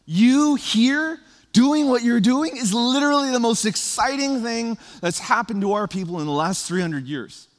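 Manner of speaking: high, loud, eager pleading to John; excited crowd pleading. Retold or imitated. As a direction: plead with him, half joking, wholly thrilled. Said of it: "they were probably thinking and feeling".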